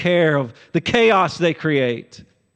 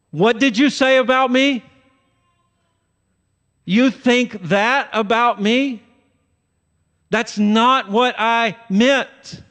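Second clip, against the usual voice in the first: defensive; 6 semitones higher than usual. Retold or imitated. To someone who spoke about you, higher defensive indignation. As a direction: bristle back, offended and higher. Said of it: "you will be defensive".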